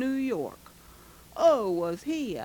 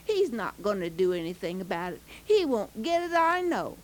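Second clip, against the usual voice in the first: put-on muttering boy; 2 semitones lower than usual. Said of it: "Bobby was muttering".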